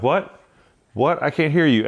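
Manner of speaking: mock confused, rising What? What?; trolling. To the shouting stranger, mock deaf teasing. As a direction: play deaf to annoy him. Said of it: "I just started trolling him".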